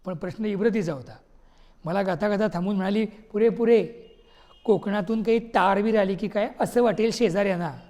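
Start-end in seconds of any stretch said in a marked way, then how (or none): 3.1-7.8 louder, impatient, stop that noise; louder exasperated cut-off. Acted. Wife stops husband's awful singing, exasperated and louder.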